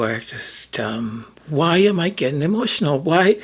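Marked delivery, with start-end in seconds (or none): 1.5-3.4 choked up. Real, not acted. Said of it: "today's an emotional day".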